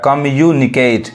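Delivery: कम्युनिकेट slowly in parts; कम्युनिकेट drawn out for learners; syllable by syllable. Shown as a demonstration. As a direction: break कम्युनिकेट into kam-yu-ni-ket. Teacher breaks word into syllables.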